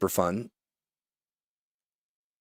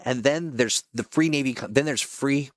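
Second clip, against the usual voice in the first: lively announcer read, pitched up; promo voice-over; 5 semitones higher than usual. Acted. Voice actor recording a game promo, announcer read.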